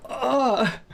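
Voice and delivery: high-pitched "ah" of sudden realization; imitated cry of dismay on realizing; mock dismayed cry. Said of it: "And then she realized".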